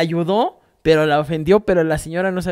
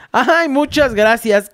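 slow, higher, drawn-out fake Yucatecan thanks; fake Yucatecan accent; 6 semitones higher, much slower than usual. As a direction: put on a Yucatecan accent, slowly. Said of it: "con acento yucateco fingido". (acento yucateco fingido, lento y alargado)

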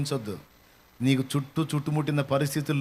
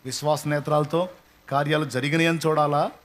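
ordinary delivery

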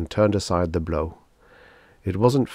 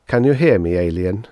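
calling out; 5 dB louder than usual. Acted. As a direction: call up to the castle. Calling out to the castle.

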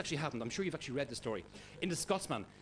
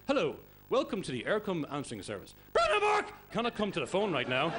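a lightly imitated recorded phone message; answering machine voice; 4 semitones higher, 5 dB louder than usual. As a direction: read it out like an automated phone greeting. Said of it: "their Eircom answering service".

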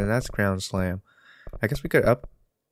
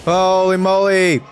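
loud, high burst of disbelief; shocked exclamation; 9 semitones higher, 10 dB louder, slower than usual. Real, not acted. Player reacting to a huge fail in the game, shocked shout.

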